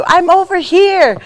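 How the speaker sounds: high-pitched calling out; imitated mother-in-law calling; mother-in-law on phone. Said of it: "and she's like".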